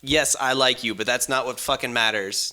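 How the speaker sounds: mildly heated imitation of a scolding father; quick, mock-angry movie speech; retold angry speech. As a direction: imitate an angry dad laying into his son. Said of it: "he's, like, angry at his son".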